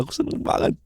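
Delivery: whispered, almost breathless repeat. Acted. Girlfriend to her boyfriend, whispering her happiness. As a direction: let it fall to a whisper.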